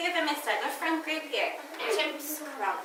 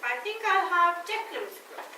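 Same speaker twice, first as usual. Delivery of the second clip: lightly voiced giraffe, slightly raised pitch; Gerald the giraffe; 3 semitones higher than usual. Teacher in role choosing which class group asks first, lightly voiced giraffe. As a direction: play a giraffe with a light touch. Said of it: "I'm going to be Gerald the giraffe".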